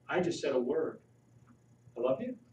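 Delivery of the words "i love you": gentle I love you. Shown as a demonstration. To the audience showing how words change meaning, tender. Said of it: "Is that a little different than".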